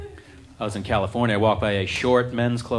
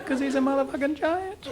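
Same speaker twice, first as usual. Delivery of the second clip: very high panicked cry of giant; panicked shriek; 11 semitones higher, 5 dB quieter than usual. Retold or imitated. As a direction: scream it at the top of the range. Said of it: "the salesman was freaking out".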